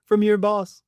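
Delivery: lightly voiced boastful Trump, slowed on the laugh; mock his bragging with a laugh. Commentator mocking Trump bragging about the money, lightly voiced. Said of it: "he immediately goes to bragging".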